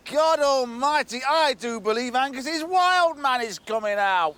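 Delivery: a touch of hammed-up awe to taunt him; drawn-out sarcastic wonder; mocking. Gordon mocks Angus.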